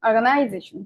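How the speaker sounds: অর্গানাইজেশন in one piece with নাই emphasized; teacher's demo of অর্গানাইজেশন with stressed নাই. Shown as a demonstration. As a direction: join up অর্গানাইজেশন, leaning on নাই. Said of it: "লম্বা করলাম".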